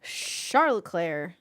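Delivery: Charles Leclerc slow, shar-luh-klair; fond French pronunciation. Shown as a demonstration. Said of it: "That's my boy".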